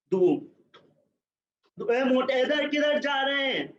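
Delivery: high, fast scolding in Urdu; PT master's scolding. Retold or imitated. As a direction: rattle off the teacher's rebuke. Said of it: "to say in his, uh, his accent, and in Urdu".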